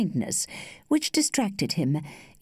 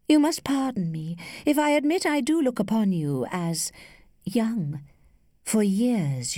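lightly voiced lady, higher and deliberate; measured confession with well-placed pauses; worldly, teasing lady; 4 semitones higher than usual. Older lady explains herself to young suitor, lightly teasing.

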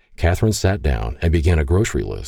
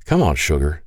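coaxing. Acted. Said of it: "he coaxed".

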